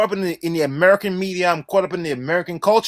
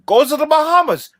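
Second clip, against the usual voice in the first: higher, eager call to travel; passionate urging; 5 semitones higher than usual. Real, not acted. Host urging listeners to visit islands, passionately. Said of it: "I sound so passionate".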